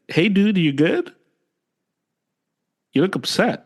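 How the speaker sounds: light, questioning lift as if checking on a buddy; concerned check-in. Acted. Friend asking if he's upset, acted concern.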